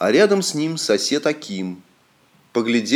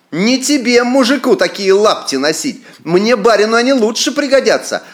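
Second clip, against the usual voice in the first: haughty lord; 7 semitones higher than usual. Acted. Arrogant lord grabs shoes.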